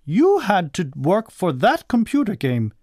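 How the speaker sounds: high-pitched scolding mother; storybook cross mother; really cross. A narrator's reading. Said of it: "she was really cross".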